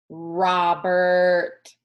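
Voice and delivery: a father calling across the motel grounds. A narrator's reading. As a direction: call his name from far off.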